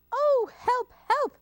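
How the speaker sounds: high, loud cries for help; panicked fox. Acted. Fox takes one look at Gruffalo, acted panic. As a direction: yelp in hammed-up terror.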